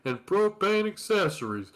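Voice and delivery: lightly voiced Texan dad grumbling; a hint of grumpy propane salesman; Hank Hill voice. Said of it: "Hank Hill at a WrestleMania".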